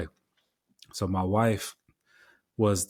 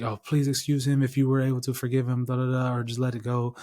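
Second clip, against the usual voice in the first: slightly raised voice, pleading lightly for pardon; imitated apologetic lady; 4 semitones higher than usual. Lady driver asks storyteller to forgive him, imitated apology. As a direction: lightly mimic her apologizing on his behalf. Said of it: "she was apologetic".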